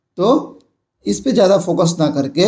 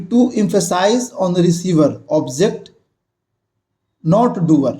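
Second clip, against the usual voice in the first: very slow, each word spaced out; slow classroom dictation; much slower than usual. Shown as a demonstration. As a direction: dictate the rule slowly to the class. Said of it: "teacher rereads rule aloud".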